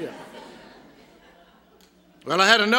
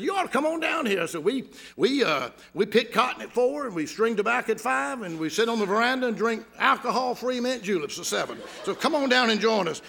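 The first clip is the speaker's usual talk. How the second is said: a hint of a folksy Southern host; playful Southern hospitality spiel; mock Southern charm. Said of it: "You sure do have a pretty Southern accent".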